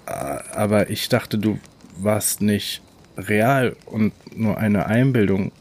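stammering, halting start; stuttering. Acted. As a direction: stumble over the first word. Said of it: "stotterte er".

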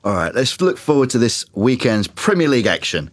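light telly announcer read; TV presenter voice. Acted. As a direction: read it like a sports link. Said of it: "I sound like some geezer on the TV".

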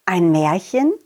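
low questioning echo; surprised repeat; puzzled echo. Acted. Clown echoes.

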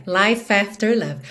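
"life after" joined as "lai-fafter"; linked "life after". Shown as a demonstration. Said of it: "o F já juntou na vogal A".

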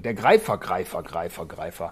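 deep, fading echo trailer announcer. Retold or imitated. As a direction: boom it out like an old movie trailer. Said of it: "Die Stimme mit dem Hall".

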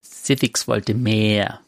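slow, ominous villain quote. Retold or imitated. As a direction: drag it out like a raid boss. Quoting the raid villain's line. (langsame Schurkenstimme)

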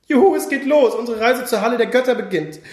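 high, bright cheering; excited shout. Acted. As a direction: cheer it out, thrilled to leave. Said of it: "schrie Oles Nachbar".

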